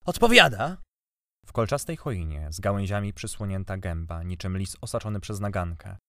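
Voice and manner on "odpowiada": high, loud hateful squeak; squeaky hatred. A narrator's reading. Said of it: "odrzekł piskliwie i z bladą nienawiścią".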